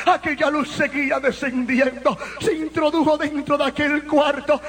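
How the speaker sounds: forceful testimony sermon voice; impassioned preaching. Real, not acted. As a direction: preach the story with full intensity. (predicación apasionada a toda fuerza)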